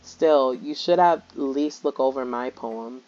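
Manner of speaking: lightly voiced game character; Natsuki voiced. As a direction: read her lines as a prickly tsundere. Reads Natsuki's lines aloud.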